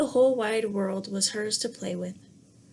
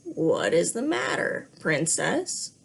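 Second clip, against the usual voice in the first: a lightly voiced timid frog, a little lower; timid scratchy frog; 5 semitones lower, slower than usual. Frog gently asks the crying princess what's wrong, timid. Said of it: "a timid, scratchy voice".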